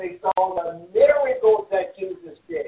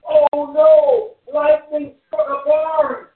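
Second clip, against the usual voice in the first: sudden loud alarm, then slower; alarmed cry; 6 dB louder, slower than usual. Retold or imitated. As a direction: shout the alarm as the smoke appears. Alarm at a barn fire.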